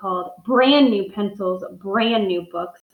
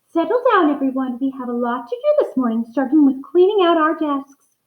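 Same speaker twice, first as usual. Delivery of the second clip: higher, lightly voiced cheerful teacher; smiling teacher; 4 semitones higher, 3 dB louder than usual. Teacher calling her class to settle, smiling and a bit higher. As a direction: call the class to order with a smile. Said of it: "She just smiled and said".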